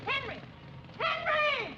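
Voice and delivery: shouting his name from afar; calling out. Acted. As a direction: call out loudly for him. Calling after him on road.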